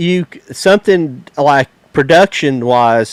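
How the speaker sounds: ordinary talk, nothing marked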